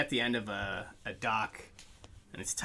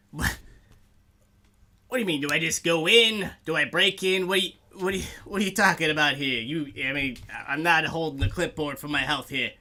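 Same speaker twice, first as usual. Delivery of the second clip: gruff orc bouncer; 3 semitones higher, 4 dB louder, faster than usual. Acted.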